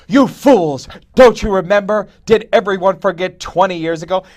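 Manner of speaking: loud, high hammed-up tirade; old man yelling. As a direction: berate the whole bar like an outraged old man. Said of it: "the old man yells at him at the bar".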